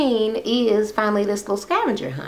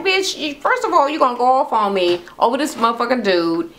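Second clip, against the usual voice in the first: mock outrage; 5 semitones higher than usual. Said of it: "I'm like".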